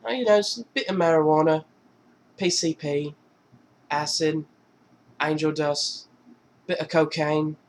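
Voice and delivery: light mock British accent, casual list; Russell Brand. British rocker casually listing the drugs, mock British accent. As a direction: reel items off in a lightly British voice.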